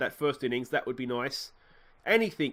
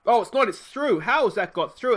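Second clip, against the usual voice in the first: higher and louder, amazed the ball got through; surprised delight; 7 semitones higher, 7 dB louder than usual. Real, not acted. Gamer watching a grounder sneak past, surprised and excited. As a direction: gasp it out in happy disbelief.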